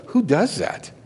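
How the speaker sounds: high, baffled question; incredulous clerk. Retold or imitated. Preacher imitating the clerk's disbelief at returned money. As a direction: ask as if he's crazy. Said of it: "she had that look like".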